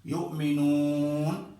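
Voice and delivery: یؤمنون with the madd held four beats; medium tawassut. Shown as a demonstration. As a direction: stretch the وُ of یؤمنون a little longer, four counts. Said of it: "توسط کے ساتھ".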